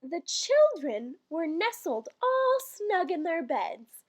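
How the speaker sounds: slow, measured verse reading; poem recital. Acted. Reading the Christmas poem to listeners, measured recital. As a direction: lilt through the rhyme like a bedtime poem.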